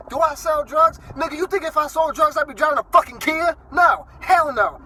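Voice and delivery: loud, high, indignant yelling; outraged shout. Real, not acted. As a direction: blow up at the insult. Outraged at drug accusation.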